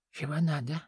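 put-on old crone mumbling without teeth; toothless mumble. A narrator's reading. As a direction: gum the words like a toothless hag. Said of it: "прошамкала бабка".

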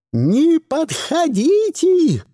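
high, loud slow shriek. A narrator's reading. Madam Rodriguez warding everyone off, loud high shriek. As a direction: screech to keep them away. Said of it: "визжала мадам Родригес".

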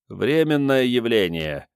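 slow, measured pronouncement; understated expert reassurance; authoritative assurance. A narrator's reading. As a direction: state it with mild authority. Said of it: "авторитетно заверил Начо Пирот".

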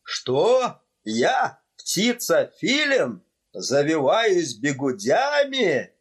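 high, indignant, slowing on the insult; outraged shout. Acted. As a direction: sputter in offended fury. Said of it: "закричал конректор вне себя от гнева".

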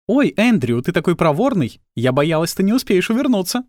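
high coquettish woman's voice; Mrs Jurgensen voice. Acted.

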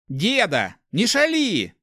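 high, teasing smile in the voice; playful, smiling plea. A narrator's reading. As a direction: chide the old man playfully. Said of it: "с улыбкой попросил воришка". (игриво, с улыбкой в голосе)

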